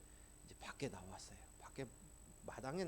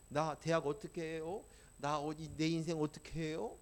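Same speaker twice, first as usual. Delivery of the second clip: louder, pleading cry to God; desperate plea; 6 dB louder than usual. Retold or imitated. Young man crying out to God about failed exams, loud plea. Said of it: "한마디도 나오지 않고는".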